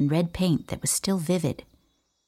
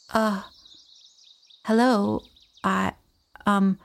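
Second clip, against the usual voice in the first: higher, halting and unsure greeting; feeling foolish; 4 semitones higher than usual. A narrator's reading. Boy greeting a stranger he surprised, awkwardly hesitant. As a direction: stumble through it sheepishly. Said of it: "I said, feeling foolish".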